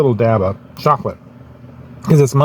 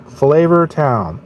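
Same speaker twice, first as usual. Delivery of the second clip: slow, slightly higher catchphrase; Guy Fieri impression; 4 semitones higher, much slower than usual. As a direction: savor each word like a TV chef. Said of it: "Guy on Food Network".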